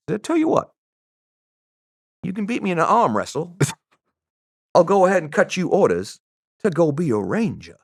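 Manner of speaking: high, sly Southern clerk making a dare; mock Southern good old boy offering a deal; Southern accent. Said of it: "that Southern".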